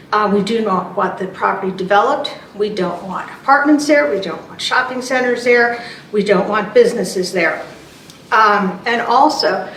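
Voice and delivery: out of breath. Real, not acted. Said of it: "I'm out of breath. I just ran up here".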